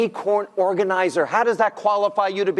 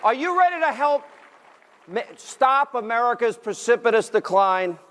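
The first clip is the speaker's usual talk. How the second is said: raised, higher pitch over a cheering audience; rallying the crowd; 6 semitones higher than usual. Real, not acted. Host rallies the convention audience with questions, rousing crowd call. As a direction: work up the room with projected questions.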